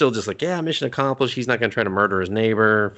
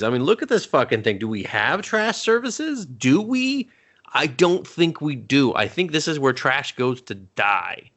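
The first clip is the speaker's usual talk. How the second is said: incredulous scolding; 5 semitones higher than usual. Acted. Podcaster scolding Ed about the alleyway, incredulous. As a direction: lecture him with rising, exaggerated incredulity.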